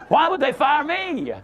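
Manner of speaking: hammed-up whine of the wronged employee; mock whining. Speaker mocks the lady's denial, slow whiny question. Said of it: "She was stunned".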